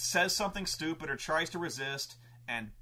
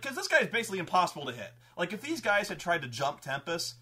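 normal talking voice

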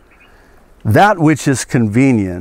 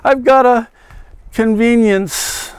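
hammed-up salesman; 6 semitones higher than usual. Preacher mocking Jeroboam as a hammy pitchman. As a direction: sell the altar like a huckster.

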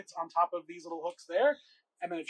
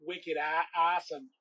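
put-on Boston accent; 4 dB quieter, slower than usual. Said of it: "Can you do a Boston accent with me?".

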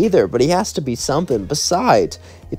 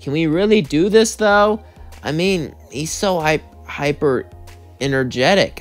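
doubtful; 3 semitones higher than usual. Acted. Charlie doubts plan after sighing.

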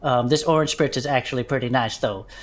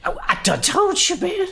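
much higher, squeezed grumble; strained complaint. Acted. Bud reminding Herb about his big head, strained high grumble. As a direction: gripe while still stuck.

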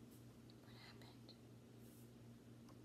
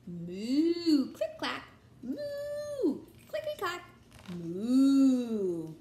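laughing; 3 semitones higher, 7 dB louder, much slower than usual. Real, not acted. Cow noises, laughing reader.

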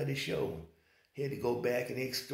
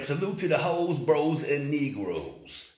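hyped greeting; 3 semitones higher, 8 dB louder, slower than usual. Real, not acted. Loud stretched intro greeting.

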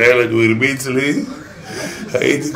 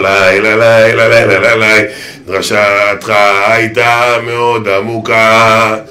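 slow, loud la-la mumble; mock dull speech; stammering praise; 3 dB louder, much slower than usual. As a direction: babble then praise slowly.

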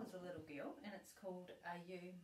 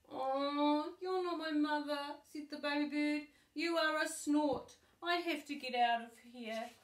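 higher and louder, a little bird's dismay; baby bird; 6 semitones higher, 11 dB louder than usual. Acted. The baby bird finding the snort is not his mother, high and dismayed. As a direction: let him realise with a fright.

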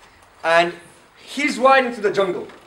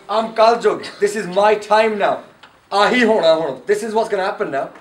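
Kal Yug; 3 dB louder than usual. Acted. Kal Yug announces himself as villain.

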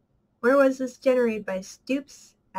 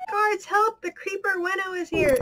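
NPC voice; 8 semitones higher than usual. Retold or imitated. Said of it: "What do you say?".

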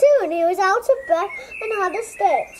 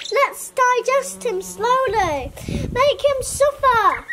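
slow gloating villain; 4 semitones higher, slower than usual. Acted. Villain vegetable relishing cruelty.

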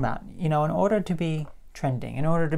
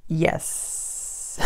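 laughing. Real, not acted. Laughs at own parody.

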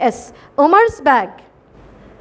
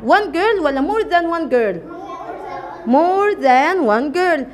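slow dictation; much slower than usual. Shown as a demonstration. Teacher poses the choice slowly.

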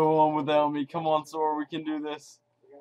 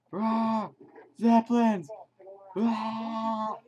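silly roar; 5 semitones higher, much slower than usual. Pretend. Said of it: "Eric, you gotta shut up".

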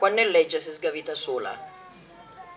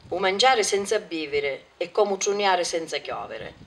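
wind on mic. Real, not acted. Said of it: "Scusate il vento".

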